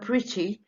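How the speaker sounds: "pretty" split into two beats; syllable by syllable. Shown as a demonstration. Teacher showing it has two syllables, "pretty" split in two. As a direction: sound out both syllables of "pretty". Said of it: "اتنين".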